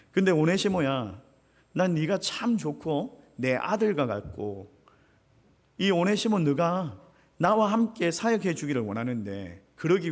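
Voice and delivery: Paul lovingly sending his spiritual son back; fatherly tender Paul. Acted. 바울의 따뜻한 권면. (아들에게 말하듯 다정한 바울)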